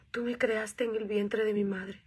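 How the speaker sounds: slow, hushed whisper to God; whispered prayer. Retold or imitated. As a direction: breathe the words as a private prayer.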